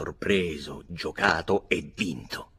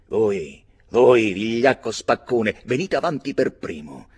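grida lente e molto forti; sfida furiosa; 4 semitones higher, 10 dB louder than usual. A narrator's reading. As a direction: scandisce l'insulto urlando. Barry sfida a duello, furioso. (Barry sfida il vigliacco, urlando lento)

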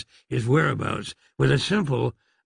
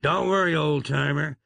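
reassuring. Acted. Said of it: "comforted Wyatt".

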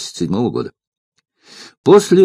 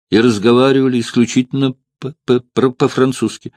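quick stammer mid-phrase; stutter; 2 semitones higher than usual. Acted. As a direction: trip over the first consonant. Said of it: "И заикание".

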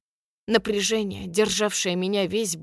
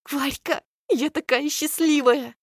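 happy excited; 6 semitones higher than usual. A narrator's reading. Friend gushing happily.

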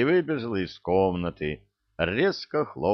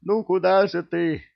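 high, louder calling voice; 10 semitones higher, 5 dB louder than usual. Acted. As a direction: call after him. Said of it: "с криком".

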